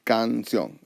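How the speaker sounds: "canción" split into can and ción; divided into syllables. Shown as a demonstration. Teacher dividing the word for learners, "canción" syllable by syllable. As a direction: draw out each syllable of "canción". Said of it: "we're gonna divide the word".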